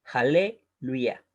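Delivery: slow "aleluya", pausing after "ale"; broken into syllables. Shown as a demonstration. Teacher showing where the short E sits, slow split "aleluya". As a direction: draw out "aleluya" in two parts to show the E. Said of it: "va a sonar como una E breve".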